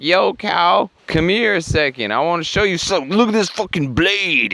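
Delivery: high-pitched, hammed-up beckoning; cartoonishly high come-here voice; mock coaxing character. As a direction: lure them over in a high put-on voice. Green guy lures the cow.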